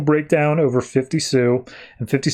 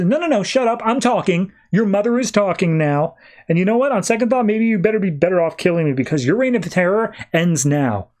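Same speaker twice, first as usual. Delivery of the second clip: raised-pitch, lightly acted telling-off; scolding mother; 4 semitones higher than usual. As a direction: cut the child off like a mother laying down the law. Acted mother cutting child off, scolding.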